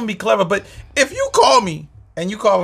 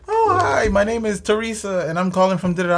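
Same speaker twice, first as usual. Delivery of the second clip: chirpy caller; 4 semitones higher than usual. Retold or imitated. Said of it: "they be like".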